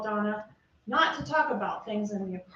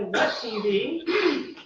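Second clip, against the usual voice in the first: mock puzzled; 5 dB louder, much slower than usual. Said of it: "Does the defendant say".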